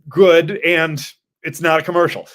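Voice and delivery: emphatic loud reply; loud retort. Retold or imitated. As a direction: punch it out loudly. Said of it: "I'm like".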